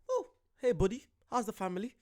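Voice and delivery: mock casual greeting. Reactor voicing a driver strolling up to fight, mock casual. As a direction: greet an old pal as if nothing happened. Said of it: "he's walking casual".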